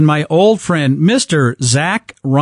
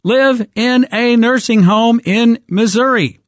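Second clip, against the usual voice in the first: raised, heated rant; fired up; 6 semitones higher than usual. Real, not acted. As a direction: push it up, worked up. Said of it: "this has me fired up".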